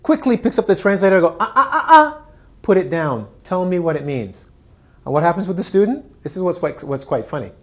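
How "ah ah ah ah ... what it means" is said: sharp teacher stop. Retold or imitated. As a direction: cut them off like a strict teacher. Teacher stops student using translator.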